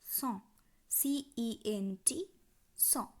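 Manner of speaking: "cent" alone, then spelled letter by letter; French pronunciation demo. Shown as a demonstration. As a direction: say "cent" with silent n and t, isolated by pauses. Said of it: "একশো সংখ্যাটির উচ্চারণ কি?".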